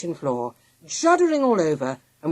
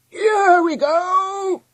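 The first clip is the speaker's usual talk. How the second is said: high, loud, stretched-out shout; slow rallying holler; leader's cry; 9 dB louder, much slower than usual. A narrator's reading. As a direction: call it out triumphantly to everyone. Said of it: "cried the leader".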